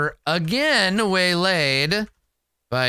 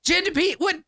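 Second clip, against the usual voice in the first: incredulous; much faster than usual. Acted. To Nadira about the missing girl, incredulous high-pitched question. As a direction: pitch jumps high in disbelief. Character hears the party member's excuse.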